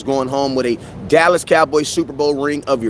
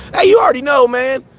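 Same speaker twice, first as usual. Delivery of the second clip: hype shout; 7 semitones higher than usual. Real, not acted. Hyped shout-out to viewers.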